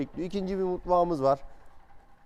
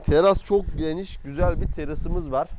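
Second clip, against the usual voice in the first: loud, raised voice outdoors; shouting over wind; 8 dB louder than usual. Real, not acted. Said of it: "çok rüzgarlı, sesim zor anlaşılmasın".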